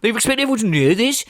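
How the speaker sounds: whiny mock complaint, voice put on; lightly put-on helpless whine; mocking Phil's whining. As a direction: play a clueless gamer moaning about no hints.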